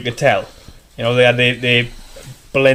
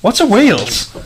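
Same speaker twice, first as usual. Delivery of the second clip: mock American girl; 6 semitones higher than usual. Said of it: "And she went".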